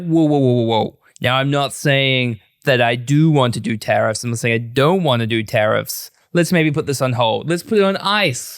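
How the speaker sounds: put-on a loose, half-hearted American accent; mock American accent playing Trump, lightly done; attempted American accent. Host imitating Trump backing down on tariffs, sketchy American accent. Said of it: "What are you, George Clooney?".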